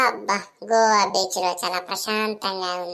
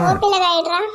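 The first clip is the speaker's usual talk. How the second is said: louder, snappier call over; 8 semitones higher, 7 dB louder than usual. Acted. Aunty calling the boy over to her, loud and quick. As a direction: call him over sharply.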